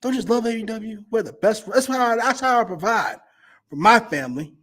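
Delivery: mock promo about providing for family; Dax. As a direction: do an earnest wrestling promo voice. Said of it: "I can hear it in my Dax voice".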